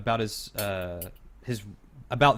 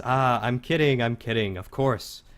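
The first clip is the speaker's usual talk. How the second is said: laughing it off; 3 semitones higher, 4 dB louder than usual. Acted. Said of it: "he guffaws very loudly".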